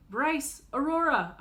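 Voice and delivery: loud call across the street. Acted. Big sister calling to her siblings across the street, loud. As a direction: call out to the kids. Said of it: "I call as they run".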